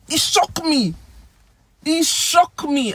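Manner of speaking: high-pitched astonished exclamation; theatrical disbelief, voice leaping up; acted shock. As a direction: exclaim it as if stunned. Demonstrates phrase for being shocked.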